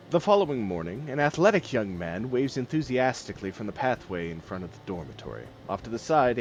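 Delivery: calm scene-setting storyteller voice; game master narration. Acted. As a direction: paint the scene for the players.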